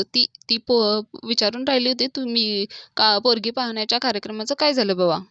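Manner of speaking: hesitant, stumbling start; halting. Retold or imitated. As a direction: stammer briefly, then get the question out. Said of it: "Yashodhan थोडं अडकतच म्हणतो". (थोडं अडखळत)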